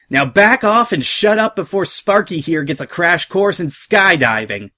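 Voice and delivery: high-voiced pirate holding a hostage; punchy threat that starts high and drops; Rainbow Dash, threatening. A narrator's reading. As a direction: warn them off, stretching out the last word.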